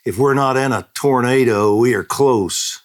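high, loud alarmed call; retold shout. Husband warning family in the hall, loud shout. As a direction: shout it over the roaring walls. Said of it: "shouted Gene".

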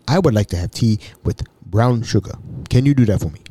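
measured, lightly imitated African accent; touch of a formal African voice. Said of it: "Mbutu was an African".

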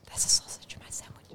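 soft ASMR demonstration whisper. Shown as a demonstration. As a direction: whisper it softly into the mic. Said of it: "whisper it like this".

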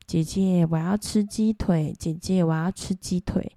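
a lightly voiced little ghost boy, slow and sing-song; slow, childish begging, only lightly put on. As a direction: coax slowly like a small child begging. Ghost boy asks for drumstick.

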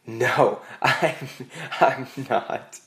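half-acted choked-up answer; imitating a tearful admission, haltingly; mock tearful. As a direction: break up the words as if crying, played for laughs. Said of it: "burst into tears".

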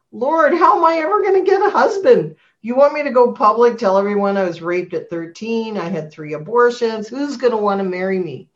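fretting aloud to God, half-mocking herself; anxious plea. Woman doubting God about finding a husband, anxious plea.

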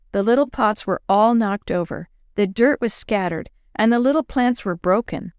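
usual speaking voice

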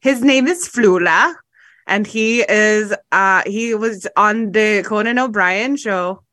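lightly attempted Irish accent, drawn out; bad Irish accent. Host introducing Flula to friends, in a bad accidental Irish accent. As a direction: slip into an unconvincing Irish accent. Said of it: "That was Irish. That wasn't what his accent is".

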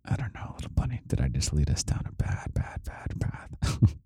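hushed late-night whisper. Real, not acted. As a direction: keep it to a breathy hush.

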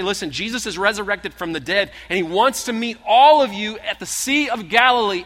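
high, loud, breathless announcement; excited women's news. Acted. The two Marys telling the disciples, high and excited. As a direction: burst in with the news.

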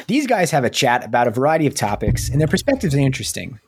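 attempted New Jersey accent, lightly put on; amateur go at a Jersey accent. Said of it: "it's another New Jersey accent".

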